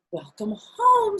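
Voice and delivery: high, loud, slow greeting; cheery mother. Acted. Mother greeting her daughter home, high and cheery. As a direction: sing out a welcome.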